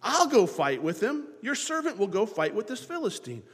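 put-on confident shepherd boy declaring he will fight; a hint of a brave young David; David pointing it out. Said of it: "as he points out".

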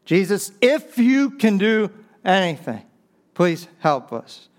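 high pleading, then a slow please; plead, stretching out please help us; pleading dad. Acted. Preacher quoting the dad begging Jesus, a pleading high voice. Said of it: "What did that man say?".

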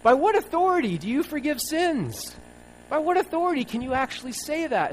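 a Pharisee freaking out at Jesus; outraged. Retold or imitated. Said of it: "stands up and freaks out and says".

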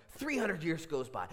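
building suspense. Real, not acted. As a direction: start the climb, still held back in volume. Counting up centuries of silence.

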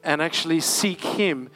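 preaching emphasis. Acted. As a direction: drive the word seek home. Exhorting the congregation.

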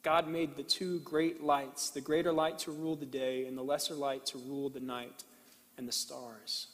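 scripture reading. Acted. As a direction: read it with reverent pauses. Reads Genesis slowly to congregation.

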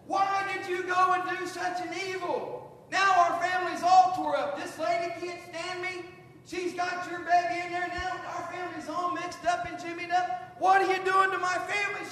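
wife berating husband for wrecking the family, exasperated; upset wife. Acted. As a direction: let the wife's frustration spill over at her husband. Sarah's voiced complaint to Abraham.

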